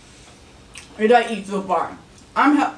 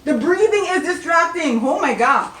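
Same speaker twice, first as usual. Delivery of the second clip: high, louder, still giggling; laughing; 9 semitones higher, 5 dB louder than usual. Real, not acted. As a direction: talk while fighting laughter. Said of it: "The breathing is really getting to me".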